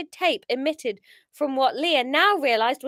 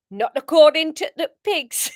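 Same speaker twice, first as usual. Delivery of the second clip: louder, shaky-footed Geordie attempt; attempted Geordie accent; 2 semitones higher, 8 dB louder than usual. Gang leader sneering at captive, attempted Geordie. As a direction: have a go at Geordie. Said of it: "I can't do Geordie".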